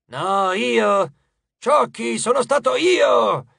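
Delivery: loud rival demons clamouring; indignant, high boastful yell; quarrelling shout. A narrator's reading. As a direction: shout over your rival to claim credit. Demons quarrelling over credit.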